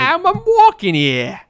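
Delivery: very high, loud, drawn-out bad impression; Christopher Walken. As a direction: holler it in a hammed-up accent. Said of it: "'Cause we're talking about Christopher Walken".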